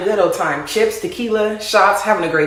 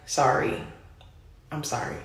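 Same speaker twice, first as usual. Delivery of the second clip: sheepish apology; 5 semitones lower, 9 dB quieter than usual. Retold or imitated. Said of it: "And he was just like".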